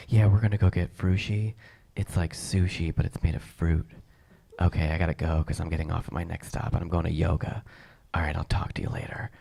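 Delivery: imitated woman chatting on a train phone. White woman making plans on the train, casual phone chatter. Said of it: "it's usually really quiet".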